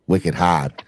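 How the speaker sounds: Boston accent, r dropped in hard; wicked hard said the Boston way, hahd. Shown as a demonstration. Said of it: "talk in my Boston accent".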